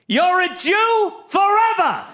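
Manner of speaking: high, slow, drawn-out shout; yelling. Acted. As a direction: holler it after someone like a curse. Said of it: "he yells".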